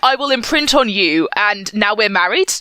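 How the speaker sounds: high, breathy-free naive put-on voice; mock innocent voice. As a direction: play it wide-eyed and innocent. Mocking a naive innocent man.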